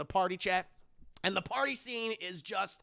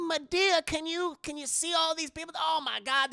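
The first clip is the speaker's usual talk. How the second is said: high-pitched, giddy mock gushing; horny excitement; 9 semitones higher than usual. Hattie ogles the men at the party, excitedly. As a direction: gush in a raised, eager voice. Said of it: "she's just horny".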